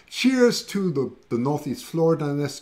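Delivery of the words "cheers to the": slow, high "Cheers"; high, drawn-out toast. Real, not acted. Toasting her viewers.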